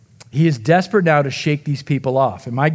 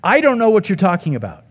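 mild snap; 5 semitones higher than usual. Retold or imitated. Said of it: "Luke says that Peter snapped".

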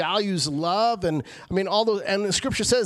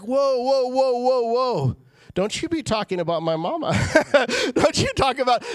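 mock outrage; 6 semitones higher, 4 dB louder than usual. Mock protective outburst.

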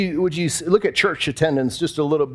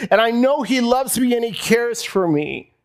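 rising fervent declaration; 5 semitones higher than usual. Real, not acted. Preacher proclaiming God's love to his congregation, rising joyful near-shout.

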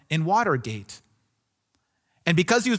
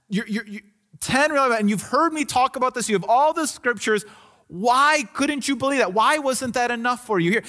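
exasperated questioning, slightly raised pitch; mild scolding; 3 semitones higher than usual. Acted. Jesus to doubting Thomas, mildly scolding. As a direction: press him with a gentle telling-off. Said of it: "he almost kind of scolded Thomas".

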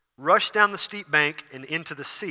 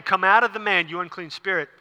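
commanding; 3 semitones higher than usual. Retold or imitated. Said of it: "So Jesus started saying".

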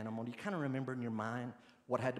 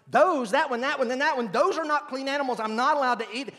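Those, that one pointed out louder and higher; emphatic quote; 13 semitones higher, 12 dB louder than usual. Retold or imitated. Preacher voicing Peter's scripture rule, mildly emphatic. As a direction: tick off the unclean animals one by one. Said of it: "passage of Scripture that tells him".

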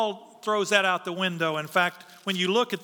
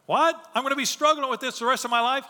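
sudden high What then a fast rush of disbelief; incredulous protest; 5 semitones higher, faster than usual. Retold or imitated. Preacher voicing Paul's disbelief at God's refusal, high and fast. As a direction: voice Paul's dismayed shock at a thorn he must keep.

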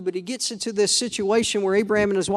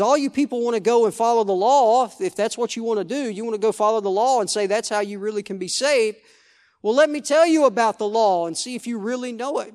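sarcastic; 2 semitones higher than usual. Retold or imitated. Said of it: "There's a little bit of sarcasm".

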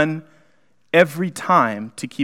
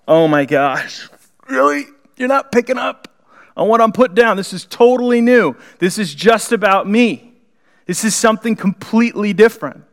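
exasperated face palm; 4 semitones higher than usual. Acted. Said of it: "Jesus is over there going, face palm".

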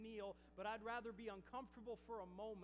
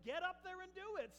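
commanding; 8 semitones higher, 5 dB louder than usual. Retold or imitated. Voices God's order to him.

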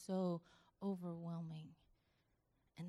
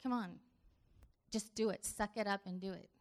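mock tough love. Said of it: "He doesn't say".

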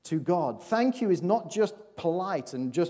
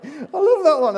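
laughing; 12 semitones higher, 8 dB louder than usual. Real, not acted. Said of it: "I was like".

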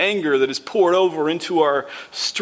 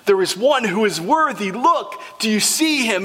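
excited pointing; 2 semitones higher than usual. Acted. Elders pointing John to the worthy one, eager. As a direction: point and urge him to see. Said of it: "they point and they say".

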